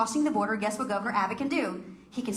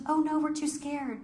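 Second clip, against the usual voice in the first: higher-pitched imitation of timid refusal; mock scared; 6 semitones higher than usual. Woman retelling her girlfriends' refusal to put up signs, mock scared. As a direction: mildly mimic someone too scared, pitched up. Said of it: "People were too scared".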